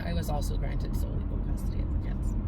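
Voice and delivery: choked whisper, fighting tears; holding back tears. Real, not acted. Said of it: "I'm trying not to cry right now".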